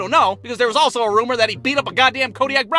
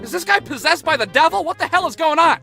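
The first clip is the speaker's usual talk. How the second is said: teacher muttering to himself; faster than usual. Retold or imitated. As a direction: ramble aloud like a confused teacher. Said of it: "talk to himself".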